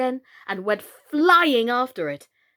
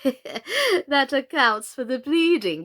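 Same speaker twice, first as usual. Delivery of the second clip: with a smile; 3 semitones higher, 4 dB louder, slower than usual. Acted. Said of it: "she said to Alice with a smile".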